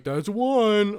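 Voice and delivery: high, loud mock squeak; high squeaky voice. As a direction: squeal it out like a loser. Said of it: "I was like".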